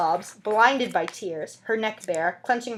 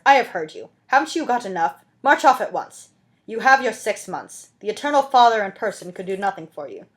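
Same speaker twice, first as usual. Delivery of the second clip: louder, stern command; cold dismissal; 5 dB louder than usual. Acted. Javert dismissing the weeping woman, stern. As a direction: order her off, unmoved.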